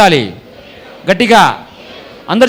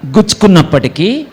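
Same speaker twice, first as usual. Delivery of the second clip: prompting the line. Shown as a demonstration. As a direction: call it out so they echo it. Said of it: "అందరు చెప్పాలా?".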